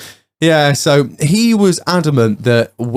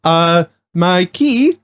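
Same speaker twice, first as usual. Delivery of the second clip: slow, higher attempt at Swedish-accented English; imitated Swedish driver; 5 semitones higher, much slower than usual. Locked-out driver explaining to worker, slow mock Swedish accent. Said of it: "He was like".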